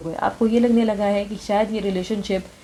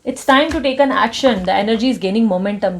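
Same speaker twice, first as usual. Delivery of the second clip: very slow, raised, drawn-out oracle read; channeled message; 4 dB louder, much slower than usual. Acted. Scene: reader relays universe guidance to her viewers, very slow. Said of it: "universe guidance दे मुझे".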